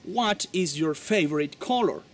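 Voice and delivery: slow model sentence. Shown as a demonstration. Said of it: "la pregunta es".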